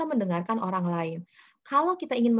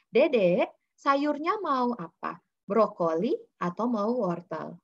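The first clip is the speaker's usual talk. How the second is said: gentle choice question; slower than usual. Shown as a demonstration. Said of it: "Bukan, misalnya".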